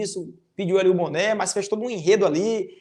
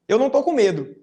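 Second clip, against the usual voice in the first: mildly raised, louder boast; acted show of courage; brave declaration; 3 semitones higher, 4 dB louder than usual. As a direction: say it with a touch of bravado. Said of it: "a cara de coragem".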